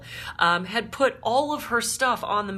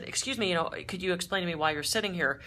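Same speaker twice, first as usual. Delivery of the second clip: polite ask. Retold or imitated. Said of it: "could have rung her buzzer and said".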